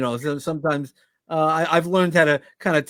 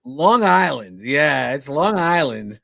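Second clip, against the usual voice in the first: Long Island accent; slower than usual. Shown as a demonstration. Guest repeats place name for host in his Long Island accent. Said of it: "You have to say it again".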